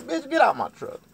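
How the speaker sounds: loud, high holler; acted high-pitched eviction yell; angry order. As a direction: throw her out with a shout. Acted order to leave truck.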